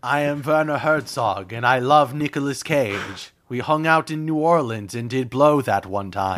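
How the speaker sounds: lightly voiced German film director; a hint of German documentary narrator; Werner Herzog. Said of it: "both have the same impression of him".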